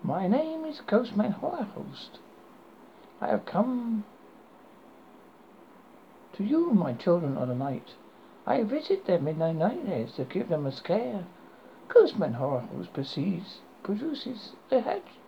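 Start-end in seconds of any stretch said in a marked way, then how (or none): 0.0-11.2 British accent with a hint of menace; creepy British accent. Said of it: "speak in a creepy British accent".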